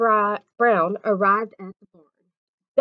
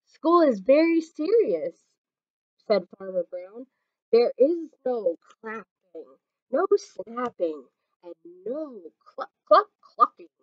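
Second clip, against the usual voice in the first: stern rules. Acted. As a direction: lay down the law. Stern farmer lays down rules.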